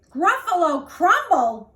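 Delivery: loud shocked echo; alarmed Gruffalo. Acted. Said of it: "the Gruffalo said".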